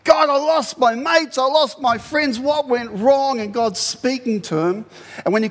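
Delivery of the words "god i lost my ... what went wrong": raised-pitch acted lament to God; tearful plea. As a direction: plead in grief, slowing on the final question. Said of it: "tears rolling down his face".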